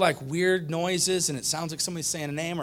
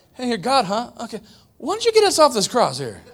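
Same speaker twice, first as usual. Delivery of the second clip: high, loud sneering taunt with a laugh; mocking thief; 7 semitones higher, 6 dB louder than usual. Preacher replays the thief jeering at Jesus, laughing and loud. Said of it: "thief taunt repeated".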